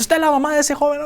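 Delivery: angry man. Retold or imitated. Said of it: "un hombre enojado dice".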